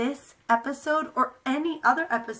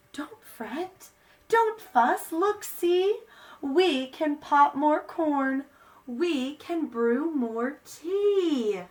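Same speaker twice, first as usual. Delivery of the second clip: squeaky mouse; 2 semitones higher, slower than usual. Acted. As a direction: soothe like a tiny mouse. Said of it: "Mouse squeaks".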